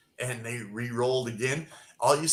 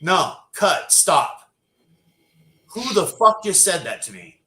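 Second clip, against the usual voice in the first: loud, high, furious stop; shouting at a background actor on set; angry outburst; 6 semitones higher, 7 dB louder than usual. Retold or imitated. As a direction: yell it like a star cut off mid-take. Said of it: "and she said".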